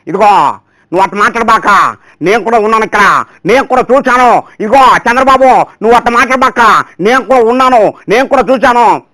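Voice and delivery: a hint of an elderly leader's stern protest; Rosaiah impression. Rival politician warning Chandrababu off the girl, mock stern. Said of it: "పక్కనే రోసయ్య గారు ఉన్నారండి".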